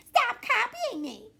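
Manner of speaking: very high, slow mocking echo with a laugh; a little sister copying the shout. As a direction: throw the words right back, mimicking. Narrator copies the shout back.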